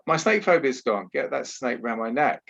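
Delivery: retelling a delighted Australian woman in mock Aussie; Aussie accent. Woman at a snake photo spot asking for the snake, in an imitated Aussie accent. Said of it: "in an Aussie accent".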